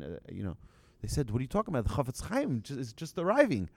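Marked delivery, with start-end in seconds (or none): 1.3-3.7 incredulous reply. Retold or imitated. Crowd answers ignorant man.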